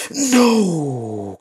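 sharp high cry of dismay; frustrated cry. Real, not acted. Gamer losing a match, cries out in dismay. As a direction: yelp it as the match turns.

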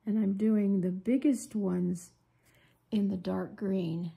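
sniffly runny nose; sniffling. Real, not acted. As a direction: talk through a drippy, sniffling nose. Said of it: "Excuse the sniffling".

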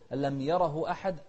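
rushed يره with the ha clipped short; too fast, wrong. Shown as a demonstration. Teacher shows students the rushed wrong reading. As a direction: hurry through "أن لم يره أحد" wrongly. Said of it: "سريعة لا".

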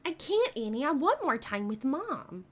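pleading movie-line imitation; playful acted plea; Hallie Parker. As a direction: plead like a kid in a film. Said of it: "I hope Hallie Parker knows something".

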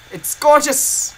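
slow, high and loud admiration; excited. Real, not acted. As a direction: gush over it, drawn out. Showing off find, repeated.

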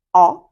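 "о" as one long, wide vowel; simple drawn-out "о" sound; long broad O. Shown as a demonstration. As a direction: hold a broad open "о". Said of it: "Це просто звук, довгий, широкий".

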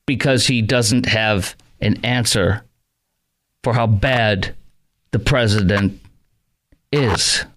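very slow, broken up by long pauses; halting, stalling talk. Retold or imitated. Radio host mocking a politician who has no answer, halting and slow. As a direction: drag it out word by word with big gaps. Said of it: "he's talking like this".

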